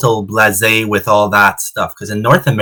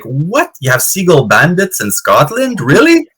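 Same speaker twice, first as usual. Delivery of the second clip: mock astonished, rising to a high squeak on really; retold disbelief; 5 semitones higher than usual. Hearing about seagull thieves, amazed disbelief. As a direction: play up the shock, pitch shooting up at the end. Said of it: "And I'm like".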